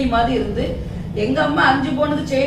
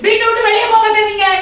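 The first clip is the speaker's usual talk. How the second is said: high, loud yell; shouted order; 9 semitones higher, 6 dB louder than usual. Acted. Wife yelling at her husband not to step out, loud. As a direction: bark it so he stays put.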